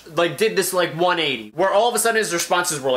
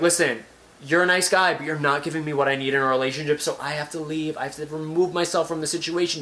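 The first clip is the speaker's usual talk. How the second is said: calm mature breakup. Shown as a demonstration. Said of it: "Be like".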